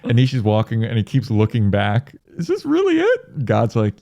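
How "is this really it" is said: high, small pleading voice; high plaintive question. Retold or imitated. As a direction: ask it like a scared kid. Nishi looking back uncertain.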